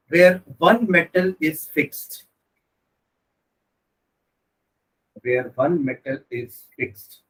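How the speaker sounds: slow dictation for notes; dictating. Shown as a demonstration. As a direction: read it out slowly for writing down. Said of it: "note करके एक point लिखो".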